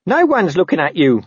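high, despairing wail; squeaky protest to a paranoid boss. A narrator's reading. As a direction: wail it like a put-upon underling. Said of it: "wailed Nobby".

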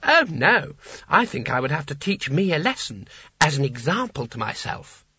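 a playful rich man teasing himself; amused sultan. Acted. Creosote answers Kanina.

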